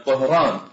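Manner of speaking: "طهران" with a heavy emphatic ط; Arabised pronunciation. Shown as a demonstration. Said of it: "فيرجعونها إلى الأصل فيقولون". (نطق "طهران" معرّبة بطاء مفخمة)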